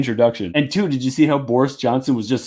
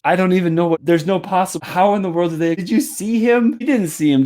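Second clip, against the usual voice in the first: exasperated disbelief; 5 semitones higher than usual. Real, not acted. Stunned disbelief at clip.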